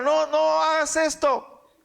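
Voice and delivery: fuerte y más agudo, suplicando; gritando. Acted. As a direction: gritar la súplica con urgencia. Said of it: "dice la palabra que gritaron". (gritando con urgencia)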